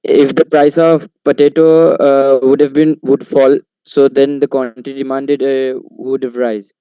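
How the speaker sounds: speaking up so the teacher hears. Real, not acted. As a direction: raise the voice a little. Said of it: "Can you please be louder?".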